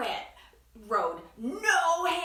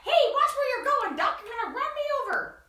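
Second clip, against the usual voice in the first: chicken's thoughts; 6 dB louder, much faster than usual. Acted. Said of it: "what she thought was".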